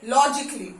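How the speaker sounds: लॉजिकली said as lojikli, a dropped; silent a. Shown as a demonstration. Teacher showing students silent-a लॉजिकली, with a laugh. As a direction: model लॉजिकली with no a sound, lightly laughing. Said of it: "तो इसको pronounce कैसे करते हैं?".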